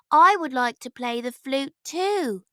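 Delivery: a hint of an eager young prince; keen to learn the flute; lightly voiced boy. A narrator's reading. Prince asking the shepherd, lightly voiced eager.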